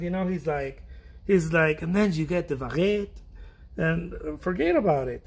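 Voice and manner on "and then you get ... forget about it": lightly imitated French accent; a hint of a French chef accent. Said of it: "Especially that little accent".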